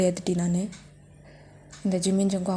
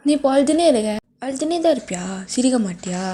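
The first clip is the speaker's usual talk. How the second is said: higher and louder scolding; angry shout; 3 semitones higher, 4 dB louder than usual. Acted. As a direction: yell at her for crying. Yelling at crying girlfriend. (அழுகைக்கு கத்துவது)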